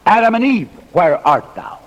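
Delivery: God calls both Adam and Eve, high call falling back; mock calling out. Preacher voices God's supposed call to the pair, mock calling out. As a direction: call the names high, then settle on the question.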